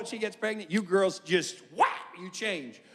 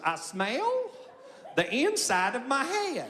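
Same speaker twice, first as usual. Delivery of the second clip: slow, eerie, lightly voiced wife; slower than usual. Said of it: "She goes".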